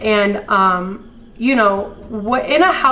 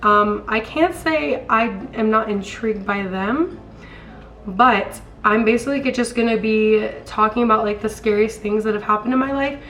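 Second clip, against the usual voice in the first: hoarse sick voice; raspy voice from a cold; smoker's rasp. Real, not acted. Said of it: "ignore this smoker's voice. I'm sick".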